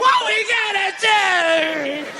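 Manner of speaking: high, listing complaints; angry wife. Pretend. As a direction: nag him item by item. Wife scolds in monologue.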